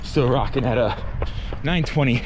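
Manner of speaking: talking mid-run, between breaths; while running. Real, not acted. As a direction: speak as if jogging on hills. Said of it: "taking some rolling hills".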